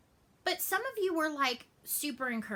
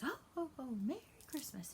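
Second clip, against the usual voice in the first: Santa's greeting; 5 semitones higher, 8 dB quieter, faster than usual. Retold or imitated. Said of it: "and he goes".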